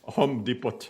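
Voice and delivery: Home Depot as "homm dee-pot"; short o in Home, sound the t in Depot; foreign mispronunciation. Shown as a demonstration. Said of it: "my favorite is".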